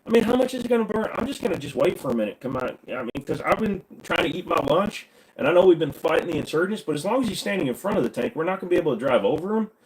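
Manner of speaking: high-pitched soldier making excuses; reluctant soldier in a skit. Acted. Soldier waiting out thermite in the tank, reluctant. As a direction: stall the order in a high, put-on voice.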